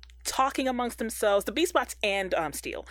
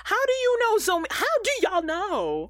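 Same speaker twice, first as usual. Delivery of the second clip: high, raised-voice protest; incredulous challenge; 11 semitones higher, 4 dB louder than usual. Real, not acted. Host arguing with co-hosts over who knows, incredulous. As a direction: push back in high-pitched disbelief. Disputes co-host's plot claim.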